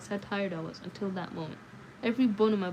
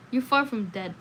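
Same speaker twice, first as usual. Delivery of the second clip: funeral director voice; 3 semitones higher, 6 dB louder than usual. A narrator's reading. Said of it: "in his best funeral director voice".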